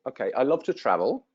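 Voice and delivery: fast, run-together delivery; speeding up. Shown as a demonstration. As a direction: rush it, testing if they keep up. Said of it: "Do you want me to speak faster?".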